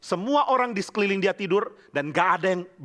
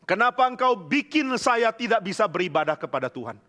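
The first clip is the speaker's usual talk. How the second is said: mild retold anger, raised pitch; angry reproach; 5 semitones higher than usual. David to his king who hunts him, mildly angry reproach. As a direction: plead indignantly, acting out the protest. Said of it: "Lalu Daud marah kepada Saul".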